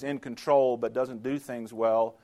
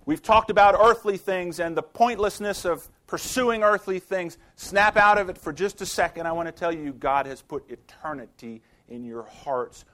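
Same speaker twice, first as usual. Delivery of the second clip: louder, higher, urgent call to snap out of it; voicing Solomon; 4 semitones higher, 6 dB louder than usual. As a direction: Solomon calling his listeners to wake up. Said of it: "as though Solomon is saying".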